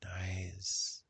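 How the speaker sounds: measured meditation guidance with long pauses; guided meditation. Acted. Guide helping listeners recall love, guided meditation. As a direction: gently lead them into the feeling.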